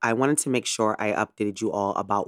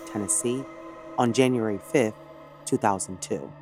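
true crime narrator. Acted. Scripted true crime episode intro.

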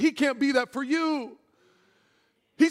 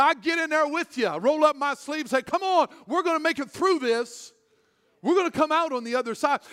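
God speaking; 5 semitones higher than usual. Acted. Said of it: "He said".

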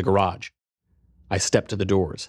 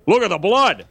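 higher, louder alarmed neighbour; man shouting; 11 semitones higher, 5 dB louder than usual. Acted. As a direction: shout it down the hallway. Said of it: "one man shouted".

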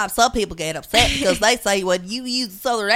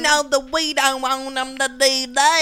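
put-on Southern accent; 3 semitones higher than usual. Mocking a racist robocall against a candidate, hammy Southern accent. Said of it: "I'm sorry I'm using a Southern accent".

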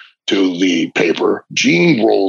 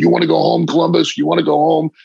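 taunting coach; 6 semitones higher, faster than usual. Retold or imitated. Coach taunts the pinned teenager, higher mocking voice. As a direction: needle the exhausted kid, lightly voiced. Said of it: "he keeps going".

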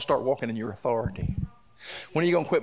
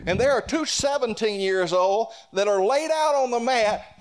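higher-pitched pulpit storytelling; spirited preaching; 8 semitones higher than usual. Acted. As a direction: preach the wrestling story with rising conviction.

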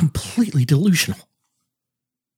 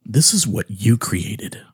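slow hushed whisper; accusing whisper; 5 semitones lower, slower than usual. Acted.

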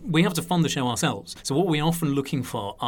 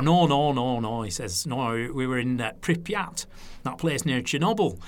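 light Lancashire voice, brushing it off; a touch of northern Lancashire, casual and unbothered; Lancashire accent. Retold or imitated. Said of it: "So it's my Lancashire accent there".

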